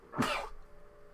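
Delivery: a stifled sneeze; quick muffled sneeze; sneezing. Real, not acted. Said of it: "Excuse me, I'm gonna sneeze".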